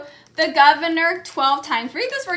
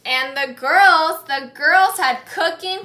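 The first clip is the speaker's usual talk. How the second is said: louder emphasis; 7 dB louder than usual. Real, not acted. Teacher calling class attention.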